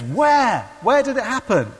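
high, loud, desperate to know; urgent eager question. Retold or imitated. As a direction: play someone frantic for the answer. Seeker eagerly questions the convert.

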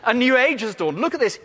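punched out in a put-on American accent. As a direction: imitate an American driving the point home. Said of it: "I hope I haven't offended you if you're American".

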